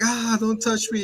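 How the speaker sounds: high squeaky recoil; high-pitched mock recoil; mock flinch. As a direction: pull away with a yelp. Retold flinching quote.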